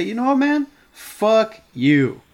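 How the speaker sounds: mock-heated clapback; retold comeback. Snapping back at coworker who cursed him, mock heated. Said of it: "And so I say".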